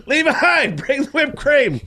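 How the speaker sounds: high call across the room. Real, not acted. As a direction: sing out for Levi to bring it.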